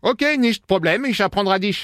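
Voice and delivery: put-on slow, cheesy German accent; fake German accent. Prank caller teaching the shopkeeper German, slow fake accent. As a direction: mangle the French like a bad German teacher. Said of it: "l'accent pourri".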